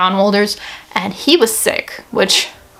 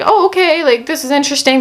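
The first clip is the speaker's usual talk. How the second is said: surprised; 4 semitones higher than usual. Retold or imitated. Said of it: "and I was like".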